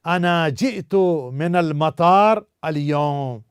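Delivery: slow, careful Arabic sentence; slow model sentence. Shown as a demonstration. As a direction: say it slowly for students. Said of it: "अब देखिए sentence कैसे निकल के आता है".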